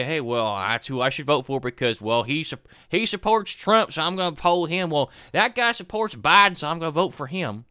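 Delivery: hammed-up Southern accent. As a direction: play a Pennsylvania voter with a put-on Southern accent. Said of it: "why people in, in Pennsylvania have Southern accents".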